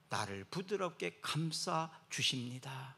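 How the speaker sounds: slow, gentle reassurance; tender slow. Acted. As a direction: comfort the listeners. Tender paraphrase.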